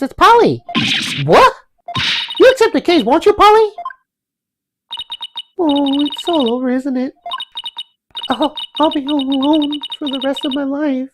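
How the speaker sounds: put-on high, girlish character voice; young girl voice.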